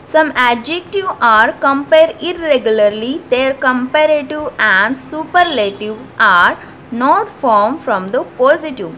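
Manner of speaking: slow, deliberate textbook reading; reading the rule. Acted. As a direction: dictate the rule slowly for students to copy. Reads grammar rule from book. (धीमी आवाज़ में नियम पढ़ना)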